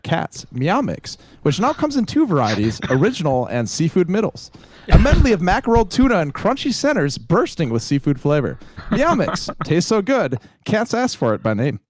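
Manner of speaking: upbeat vintage commercial pitch; chipper 1950s ad. Acted. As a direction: sell it like an old TV ad. Spoof pet food commercial.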